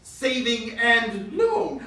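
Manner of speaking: saving and loan, each word slow and apart; slow separate words. Shown as a demonstration. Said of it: "Words like".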